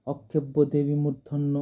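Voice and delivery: অক্ষেব্য said "okkhebbo", with a doubled "kkh"; common mispronunciation. Shown as a demonstration. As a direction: show how others say অক্ষেব্য, without an s. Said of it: "উচ্চারণ করে".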